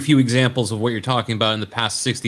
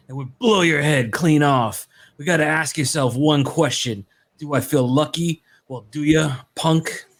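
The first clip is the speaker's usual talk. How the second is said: Clint Eastwood. Pretend. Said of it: "We need your best Clint Eastwood impression".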